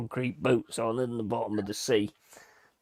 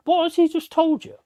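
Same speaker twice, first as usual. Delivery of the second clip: very high, loud scolding shout; exasperated yell; 6 dB louder than usual. Retold or imitated. To his mate ignoring the local's warning, high furious yelling. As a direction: demand an answer in disbelief.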